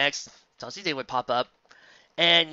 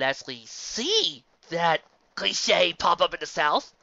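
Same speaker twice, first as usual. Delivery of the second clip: incredulous rant; 2 semitones higher, 3 dB louder than usual. Real, not acted. Ranting about cowboy hat cliche.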